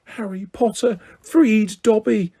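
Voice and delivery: high, shrill elf voice; high shrill house-elf voice. Acted. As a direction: squeal it up at Harry. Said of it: "said the elf shrilly".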